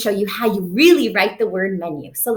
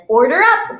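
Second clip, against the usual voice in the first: loud, higher call from the kitchen; chef calling out; 6 semitones higher, 6 dB louder than usual. Pretend. Pretend chef announcing the food: loud call.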